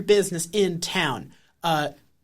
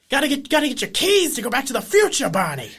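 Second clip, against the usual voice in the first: Christopher Lloyd impression; 5 semitones higher than usual. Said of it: "you became Christopher Lloyd there".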